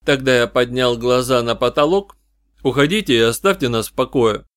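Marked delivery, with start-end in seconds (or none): 2.6-4.5 firm command. Acted. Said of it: "решительно приказал я".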